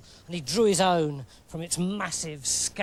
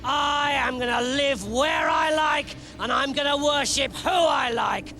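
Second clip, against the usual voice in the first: raised, defiant taunt; defiant shout; 5 semitones higher than usual. Acted. Giant taunting the army.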